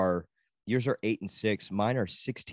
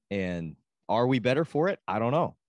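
polished show-host delivery; 2 semitones higher than usual. Pretend. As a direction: pose it like a pro podcast host. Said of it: "that was a really great host voice".

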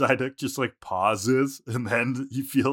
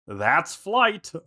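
Meowth; 5 semitones higher than usual. Acted. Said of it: "and Meowth goes".

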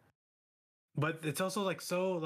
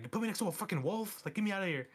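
mock panicked outburst, higher; panicked quote; 5 semitones higher, faster than usual. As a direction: squeal it like a freaked-out guy stuck by a wolf. Retells panicked Pete Davidson character.

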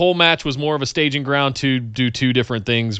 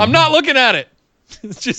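flustered; 9 semitones higher than usual. Pretend. Mock flustered denial.

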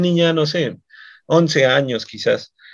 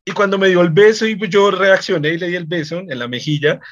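ordinary talk, nothing marked

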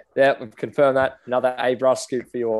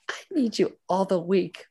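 put-on accidental Asian accent; 6 semitones higher than usual. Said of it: "I keep doing that".

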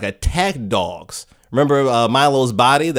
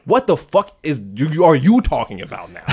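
stumbling incredulity breaking into laughter; mock bewilderment, laughing through the end; baffled, laughing; 2 semitones higher than usual. Host reacting to confusing plot, laughing bafflement.

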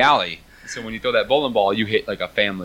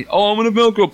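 silly character voice; 10 semitones higher, 4 dB louder, faster than usual. Retold or imitated. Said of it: "And then that".

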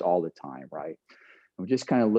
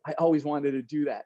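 says it through a laugh, out of breath from the swim; half-laughing, thrilled after the rescue; uncle laughing; 5 semitones higher than usual. Retold or imitated. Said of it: "he looks at me and goes".

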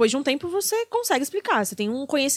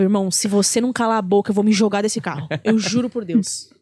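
louder, fed-up plea; mild mock desperation in the car; exasperated threat; 2 semitones lower, 4 dB louder than usual. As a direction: beg him to shut up, at the end of patience. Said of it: "Falava, falava".

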